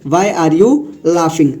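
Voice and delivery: "Why are you laughing?" said very slowly, word by word; slow teaching read. Shown as a demonstration. Teacher repeating the sentence slowly for the class. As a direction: drag it out so learners catch every word.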